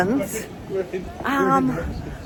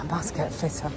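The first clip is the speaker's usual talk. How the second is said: ordinary talk, nothing marked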